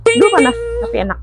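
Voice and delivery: mouth full of hot food. Real, not acted. Eating hot tasty food.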